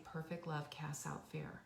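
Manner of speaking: soft, low, lip trembling; a hushed little voice through tears; mild imitation of a crying boy; tearful child's murmur. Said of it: "and he's saying".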